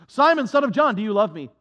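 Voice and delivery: loud, searching question to Peter; Jesus calling out. Acted. Jesus asks Peter on the shore, a loud searching question. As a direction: call it out across the shore, pressing him.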